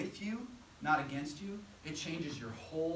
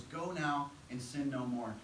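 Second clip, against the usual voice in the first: gentle and kind; slower than usual. Retold or imitated. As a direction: let her go with compassion. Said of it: "Jesus' heart for this woman was".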